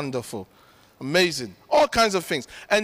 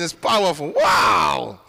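shout; 3 semitones lower, 3 dB louder, slower than usual. Real, not acted. Exclaiming in worship.

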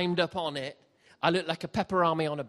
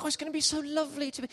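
dreamy believer; 11 semitones higher, much faster than usual. Retold or imitated. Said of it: "I think".

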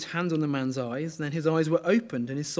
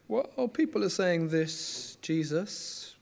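arm's length, guarded; much slower than usual. Retold or imitated. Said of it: "It's quite arm's length".

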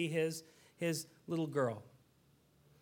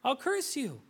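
a hint of a stern, demanding God; 7 semitones higher than usual. Pastor mocking the wrong image of God, mild stern voice. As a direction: lightly voice a harsh, conditional God. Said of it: "God's saying".

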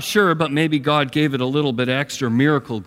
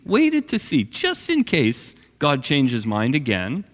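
ordinary talk

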